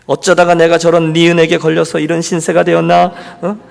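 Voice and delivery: retold lament in an even, droning line; imitated wife's complaint; self-pitying grumble. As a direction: grumble mildly about your lot in life. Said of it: "이건 기도라기보다는 푸념".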